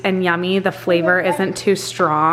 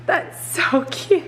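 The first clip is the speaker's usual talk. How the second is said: slow, high, giggling coo; 7 semitones higher, much slower than usual. Real, not acted. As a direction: melt over how cute they are. Mother laughing at babies.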